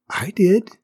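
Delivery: small, high, timid flower voice; bashful little high voice; shy murmuring flower. A narrator's reading. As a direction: admit it shyly, pitched high. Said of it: "murmured the flower".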